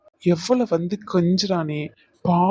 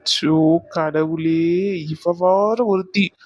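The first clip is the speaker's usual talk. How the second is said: slow exasperated sigh; slower than usual. Acted. Exasperated aside to himself.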